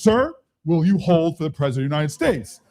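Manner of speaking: mildly stern operator, all business; very serious. Retold or imitated. Operator all about duty to the teasing mayor, serious. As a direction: imitate her dutiful, official firmness. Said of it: "she was very serious".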